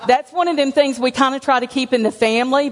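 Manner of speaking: chuckling through the words; laughing confession. Real, not acted. To the congregation about her weight, laughing. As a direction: laugh it off as you admit it.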